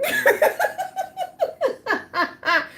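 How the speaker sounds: long high laugh. Real, not acted. Mocking the other girl, long high laugh. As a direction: laugh at the irony.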